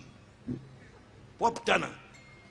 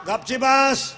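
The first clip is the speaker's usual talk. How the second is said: louder order; stern father order; 3 semitones higher, 6 dB louder, much slower than usual. Retold or imitated. Father to his son, a loud order. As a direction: snap it like an angry father.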